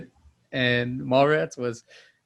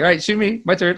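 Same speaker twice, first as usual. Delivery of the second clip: high, loud, excited little voice; imitated eager son; 6 semitones higher, 7 dB louder than usual. Son asking dad during Nerf play, eager. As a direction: beg for a turn, pitched up and loud. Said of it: "and he's like".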